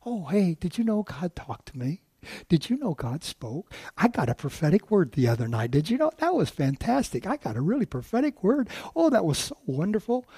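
a light chirpy tone that shrugs it off; lightly voiced, breezy churchgoer; mock casual. A hint of a flippant churchgoer telling a friend about a prophecy. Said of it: "they just kinda sit there".

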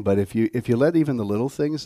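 ordinary talk, nothing marked

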